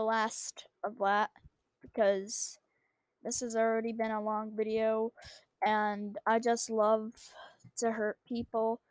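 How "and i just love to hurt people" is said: whispering. Acted. Sly confession.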